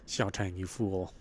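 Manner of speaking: slow, soft, heartbroken; grieving. Acted. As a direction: whisper it through grief. Grieving cry to lost love.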